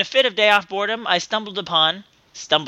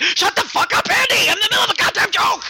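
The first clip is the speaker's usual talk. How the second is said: snapped shout; 12 semitones higher than usual. Retold or imitated. Tim yelling at Andy for interrupting, furious shout. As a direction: blow up mid-joke, yelling. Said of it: "and I just snapped".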